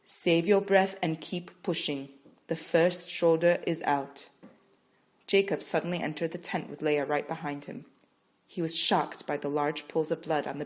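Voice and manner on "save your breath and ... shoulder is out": calm. Acted. Midwife calmly coaching Rachel. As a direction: Save your breath said evenly, unhurried. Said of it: "calmly said".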